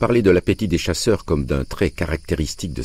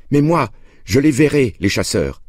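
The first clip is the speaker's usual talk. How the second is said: put-on higher child's voice, mildly tearful; a boy pleading, a touch of sobbing; crying out between sobs; 10 semitones higher, 4 dB louder than usual. A narrator's reading. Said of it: "criai-je entre deux sanglots". (enfant qui supplie, un peu en sanglots)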